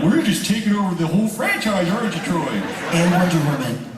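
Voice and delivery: high-pitched, hammed-up needling; mock exasperation. Ribbing Troy about taking over the franchise, mock exasperated. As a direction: tease an actor hogging the roles, pitched high.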